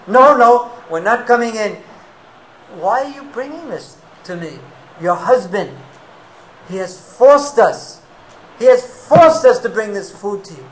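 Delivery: loud, anxious pleading; pleading boys. Acted. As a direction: beg her urgently, afraid. Boys pleading, scared of husband.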